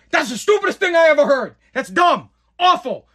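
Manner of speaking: mock-harsh boss rejecting a pitch; scornful put-down. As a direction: slam the idea down hard. Slamming a coworker's idea.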